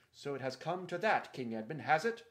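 loud, menacing challenge; threatening challenge. Acted. Caspian challenging Edmund over the claim, menacing. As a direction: dare him, hand on the sword.

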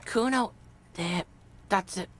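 put-on halting street kid, broken by pauses; hesitant reply. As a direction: start haltingly, then get the words out. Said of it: "Kuno falls silent. He does not look".

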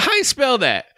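a goofy disguised voice to fool the caller; stupid voice. Retold or imitated. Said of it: "I put on some stupid voice".

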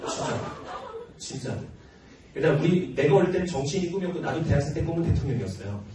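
normal talking voice

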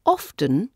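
often with a sounded T, OFF-tun; pronounced T. Shown as a demonstration. Teacher explaining the older form, often with sounded T. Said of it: "was pronounced with the T sound".

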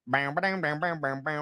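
mock dumb British accent. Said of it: "that accent over there is their".

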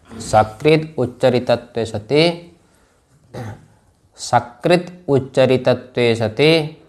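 slow, spaced dictation, each phrase repeated. Shown as a demonstration. Teacher dictating a Sanskrit definition to students, slow and deliberate. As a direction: read it out slowly so students can write it down. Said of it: "लिख लो".

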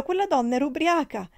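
high, loud denial; crying out. A narrator's reading. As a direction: shout it through tears. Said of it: "gridò la ragazza". (grido disperato)

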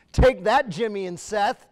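loud, high-pitched playful comeback; mock defiance. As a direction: throw it down like a triumphant taunt. Anchor mock-taunting talk show hosts.

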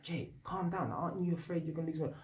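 softly voiced plea to calm down; hushed, quick imitation of someone pacifying; calming colleague. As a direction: drop the volume and imitate a worried workmate. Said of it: "One of the girls at work was like".

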